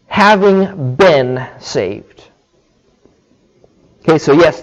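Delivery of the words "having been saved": slow emphasis. Shown as a demonstration. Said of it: "So you could say".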